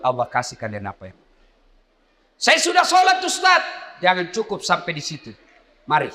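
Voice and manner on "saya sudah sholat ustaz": congregant voice. Retold or imitated. Voicing a congregant's reply.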